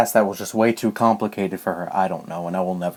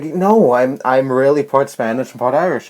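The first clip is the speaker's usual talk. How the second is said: raised, mildly heated retold protest; angry protest; 4 semitones higher, 4 dB louder than usual. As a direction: insist with a touch of childish anger. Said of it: "really angry".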